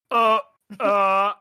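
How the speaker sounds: high, startled uh; flustered demon. Acted. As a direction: stammer as if caught in the act. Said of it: "turns and goes".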